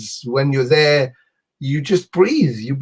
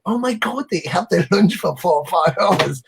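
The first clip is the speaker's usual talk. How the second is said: higher mock-shocked reaction, laugh breaking in; retold amazement; 3 semitones higher than usual. Visitor hearing how long locals lunch, high retold amazement. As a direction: replay your amazement, starting high.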